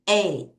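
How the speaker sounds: Eighty with strong EIGH, faint ty; EIGH-ty, ending barely voiced; weak ty. Shown as a demonstration. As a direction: hit EIGH, nearly swallow ty. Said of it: "T를 약하게 읽어요".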